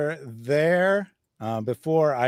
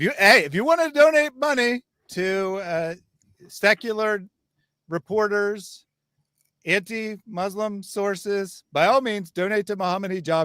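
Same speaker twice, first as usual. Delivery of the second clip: sarcastic pitch; 7 semitones higher than usual. Acted. Sarcastic invitation to donate.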